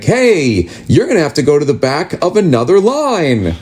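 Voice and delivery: bright, chirpy mock cheer; happy tone. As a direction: announce bad news like a prize. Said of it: "in that happy tone".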